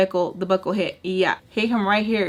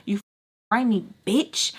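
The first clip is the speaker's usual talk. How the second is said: yelling; 3 semitones higher, 3 dB quieter than usual. Retold or imitated. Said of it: "she starts yelling at Sugar".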